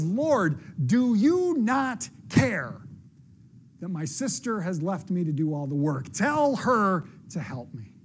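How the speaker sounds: slow, drawn-out exasperated plea with a warning edge; frustrated hostess scolding her guest; mad warning tone. Acted. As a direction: sound fed up and warning. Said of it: "She gets so mad that that voice, probably with a hint of warning".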